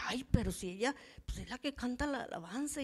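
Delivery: half-whispered doubting reply; hushed hesitant aside. Retold or imitated. Preacher hushed, doubting her inner voice. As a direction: murmur it, unsure, to God.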